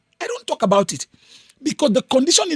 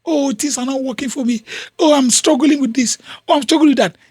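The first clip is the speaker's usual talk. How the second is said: mild mock self-pity, sighing each oh; lightly imitating someone fishing for sympathy on a call; a touch of a sorry-for-myself moan; pitiable whining; 3 semitones higher than usual. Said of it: "You're wanting to sound pitiable".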